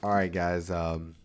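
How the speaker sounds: low close-mic host voice; deep radio voice. Shown as a demonstration. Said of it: "talk like this for the rest".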